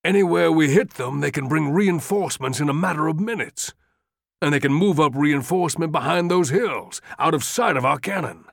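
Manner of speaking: rising, insistent appeal; urgent pleading. Acted. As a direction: press the general harder and harder. Longstreet pleading urgently with Lee.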